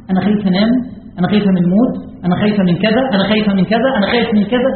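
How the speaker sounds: quick list of worries, each rising at the end; mock fretting. Preacher mimicking over-fearful listeners, mock fretting. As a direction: imitate an anxious worrier, repetitive.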